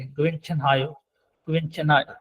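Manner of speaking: गुवेन छन हायो with only a faint h in हायो; touch the h in हायो very lightly. Shown as a demonstration. Teacher showing students a barely sounded h. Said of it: "इसको बिल्कुल हल्का सा देंगे".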